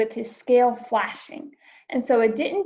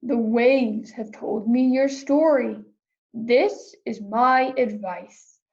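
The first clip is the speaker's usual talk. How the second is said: octopus deep voice. Acted. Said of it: "said the octopus with a deep voice".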